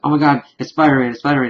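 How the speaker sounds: fast retold fanboy babble, mildly excited; mock freak-out. Ghost dog recalls meeting Spider-Man, mild mock freak-out. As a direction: rattle it off in lightly mimicked excitement. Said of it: "they were freaking out over each other".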